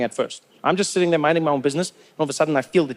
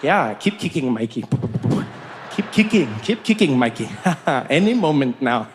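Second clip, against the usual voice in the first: gleeful menace; 5 semitones lower than usual. Acted. Gloating as punishment approaches.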